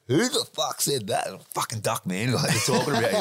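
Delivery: high-pitched imitation of startled drinkers; mock pub outcry. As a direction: act out the pub crowd's indignant reaction. Pub crowd reacting to loud voice.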